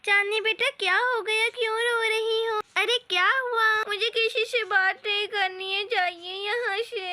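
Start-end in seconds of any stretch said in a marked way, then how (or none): 3.9-7.1 crying sulk. Acted. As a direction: push him away through tears. Girl crying, uncle asks why.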